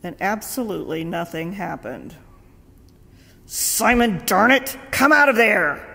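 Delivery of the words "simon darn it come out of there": louder, fed-up shout; exasperated call. Retold or imitated. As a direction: lose patience with the dead man.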